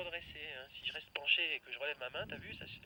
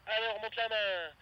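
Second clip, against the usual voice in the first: urgent call; 4 semitones higher, 10 dB louder than usual. Real, not acted. Coach urging pilot mid-manoeuvre.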